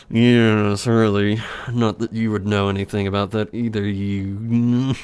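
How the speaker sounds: put-on German-accented put-down; Heinrich. German character belittles Gunslinger, accented sneer. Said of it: "my old German voice".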